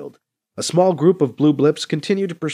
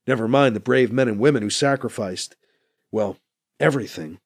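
somber. Acted. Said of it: "says somberly".

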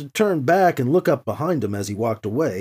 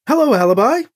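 higher, louder hopeful hello; cheerful, hopeful; 7 semitones higher, 5 dB louder, faster than usual. A narrator's reading. Emily greets Alibi before the big move, cheerful and hopeful. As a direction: greet him cheerfully, voice lifted. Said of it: "She sounded cheerful, hopeful".

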